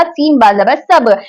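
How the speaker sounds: सब spelled सीन बा जबर, slow and deliberate; spelling out slowly. Shown as a demonstration. Teacher to students spelling a word, slow and deliberate. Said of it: "हर सीन को बा से मिला देगा".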